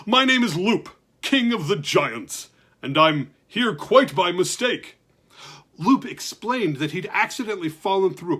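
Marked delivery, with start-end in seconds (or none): 0.0-5.0 regal giant. Acted. Giant introduces himself.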